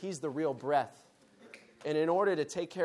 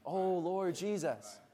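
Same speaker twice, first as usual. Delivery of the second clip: slow call; much slower than usual. Shown as a demonstration. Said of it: "we practice calling in the meetings".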